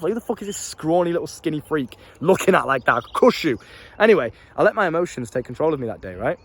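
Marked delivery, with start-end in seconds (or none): 0.1-3.6 mildly irritated, scornful mock rant; retold pissed-off rant. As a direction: replay being pissed off without raising the voice. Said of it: "'cause I was pissed off".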